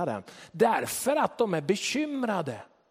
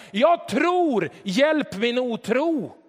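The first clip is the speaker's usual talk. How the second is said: much higher, louder desperate cry, slowing down; 7 semitones higher, 6 dB louder, much slower than usual. Retold or imitated. Father cries to Jesus, higher and louder. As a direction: call out from the depths. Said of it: "ropar pojkens far".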